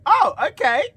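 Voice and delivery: high, loud, breaking into laughter; laughing disbelief. Retold or imitated. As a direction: squeak out a startled agreement through laughs. Flustered reply, told while laughing.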